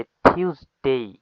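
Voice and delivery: slow টিউজডে opening on a puffed "th", ending "dei"; aspirated T demonstration. Shown as a demonstration. Teacher models the correct T for students, slow aspirated demonstration. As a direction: say টিউজডে slowly as "thiuz-dei". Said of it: "এটা টি উচ্চারণ হয়ে যাবে".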